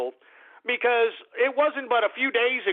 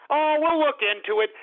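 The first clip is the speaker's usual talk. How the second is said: higher, exaggerated mock of a dismissive brush-off; mocking Merkel; 5 semitones higher than usual. Sneering at Angela Merkel's reply in a higher mocking voice. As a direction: lay the sarcasm on thicker, pitched up. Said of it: "all she said was".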